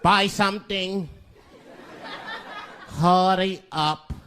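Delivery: gruff, clipped, impatient shop owner; slow impatient shopkeeper grumble; growling shopkeeper. Retold or imitated. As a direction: growl it at a customer. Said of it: "growls at me".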